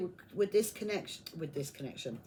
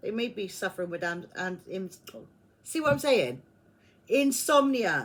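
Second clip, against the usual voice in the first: raised voice, stumbling over words; 5 dB louder than usual. Reading a tarot card for the listener, reaching for a word: stumbling over words. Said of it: "I can't get my words out".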